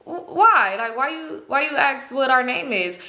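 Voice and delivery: halting, stammered questioning; caught off guard. Retold or imitated. Man dodging a passenger asking his name, caught off guard. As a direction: stumble into a wary question, imitating him. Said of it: "we caught him off guard".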